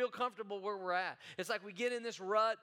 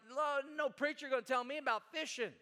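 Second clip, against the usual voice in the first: higher, dismissive tough-guy scoff; scoffing fisherman; 6 semitones higher than usual. Retold or imitated. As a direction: brush off the preacher. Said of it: "easy for Peter to be like".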